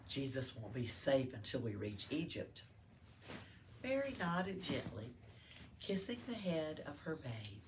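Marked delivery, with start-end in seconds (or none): 0.1-2.6 soft voice. Acted. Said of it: "he said in a soft voice".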